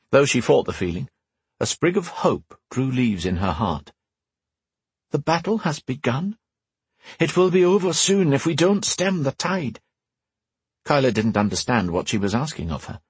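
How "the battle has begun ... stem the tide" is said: an urgent voice from afar, kept gentle; mysterious woman voice. Acted. Telepathic woman speaking.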